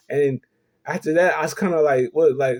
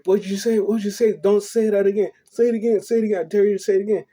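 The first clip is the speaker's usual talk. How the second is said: higher-pitched, repeated retold challenge; threatening pastor; 5 semitones higher, faster than usual. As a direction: imitate an angry pastor daring a kid. Pastor grabs and dares the child.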